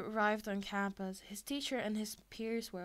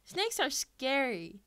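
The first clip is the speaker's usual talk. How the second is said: higher, louder, slow frightened whine; scared; 4 semitones higher, 6 dB louder, slower than usual. A narrator's reading. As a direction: whimper it in fear. Classmate afraid of snake.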